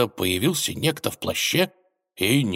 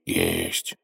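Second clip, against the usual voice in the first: taken aback; 13 semitones lower than usual. Acted. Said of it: "обескураженно заметил волк".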